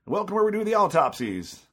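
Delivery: high, gleeful ghoulish welcome; creepy haunt host. Retold or imitated. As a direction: greet them like a spooky host. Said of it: "the last one was like".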